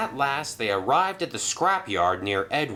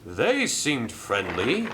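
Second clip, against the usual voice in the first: oblivious; slower than usual. Acted. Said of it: "he said obliviously".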